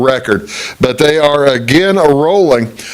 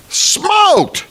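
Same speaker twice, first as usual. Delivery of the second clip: emphatic echo. Real, not acted. Repeats smoked for emphasis.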